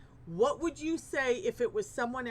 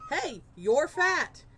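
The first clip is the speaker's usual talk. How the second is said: slow, blunt, louder jab; mock insult; 4 semitones higher, 6 dB louder, much slower than usual. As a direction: deliver it like a rude stranger. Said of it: "somebody walks up to me and says".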